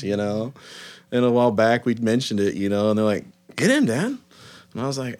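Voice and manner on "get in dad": put-on high child voice, much higher; kid demand. Kids telling their dad to get in, high kid voice.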